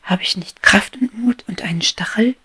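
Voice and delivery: high, loud giddy declaration; a bee drunk on sunlight, shouting her dreams; exuberant cry. Acted. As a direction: proclaim your freedom with overflowing joy. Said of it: "rief sie".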